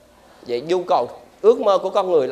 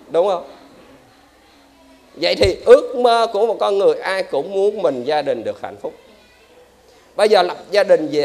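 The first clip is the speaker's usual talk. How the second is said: usual speaking voice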